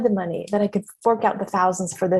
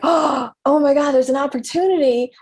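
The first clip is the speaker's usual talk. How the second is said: mock excitement; 4 semitones higher, 3 dB louder than usual. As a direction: act out spotting a golden chance. Acted excitement at an opportunity.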